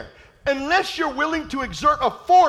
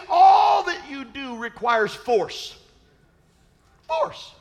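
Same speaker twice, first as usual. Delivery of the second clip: preaching shout; slower than usual. Real, not acted. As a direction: hammer the word Force home. Preacher drives home a point.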